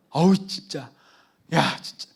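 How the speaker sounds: imitating a fed-up father's outburst; exasperated scolding. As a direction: scold a clumsy child in exasperation. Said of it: "막 이러면서 막 아빠가".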